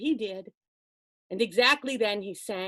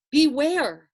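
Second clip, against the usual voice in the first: a raised warning beware; 3 semitones higher, 6 dB louder than usual. Acted. Old man warning the princess, raised warning. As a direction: call out the warning firmly. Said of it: "said the old man".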